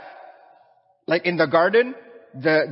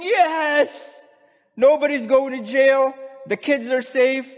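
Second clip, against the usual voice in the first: much higher and louder, joyful cheer; rejoicing crowd; 9 semitones higher, 4 dB louder than usual. Acted. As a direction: cheer as the whole courtroom celebrates. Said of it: "Everybody was rejoicing".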